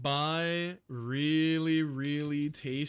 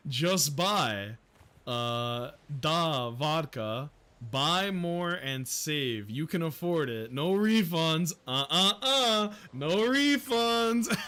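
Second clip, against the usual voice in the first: mock shopkeeper voice; slower than usual. Streamer voicing a shady shopkeeper, mock pushy. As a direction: play the greedy merchant refusing refunds.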